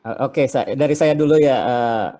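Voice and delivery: broken-up call audio; choppy connection. Real, not acted. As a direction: voice cutting in and out. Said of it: "Suaranya putus-putus ya?". (suara putus-putus)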